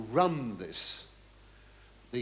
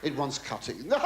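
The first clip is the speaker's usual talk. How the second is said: normal talking voice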